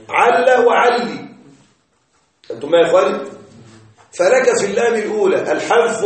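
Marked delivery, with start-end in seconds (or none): 0.1-1.3 عل and علي said slowly, no first lam; forms without the first lam. Shown as a demonstration. Teacher listing the shortened forms of لعل for students, slow. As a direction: pronounce عل then علي slowly. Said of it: "حذف الأولى وكسر".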